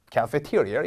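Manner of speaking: cafeteria said like kapetiurio; slow, English vowels in cafeteria; American cafeteria. Shown as a demonstration. Teacher models the right pronunciation. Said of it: "카페티어리어 같은 소리가 나요".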